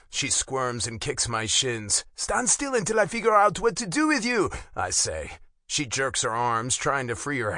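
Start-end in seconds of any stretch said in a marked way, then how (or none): 2.2-4.5 raised-pitch command to a struggling captive; exasperated command; stern order. A narrator's reading. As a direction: order them firmly, voice pitched up. Ordering struggling intruder to stop.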